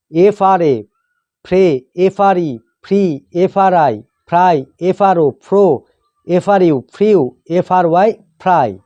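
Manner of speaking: teacher's measured spelling recitation, pausing between items; pronunciation drill. Shown as a demonstration. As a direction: spell out the letters, then sound the blend. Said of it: "উচ্চারণ এইভাবে হয়". (বানান করে উচ্চারণ শেখানো)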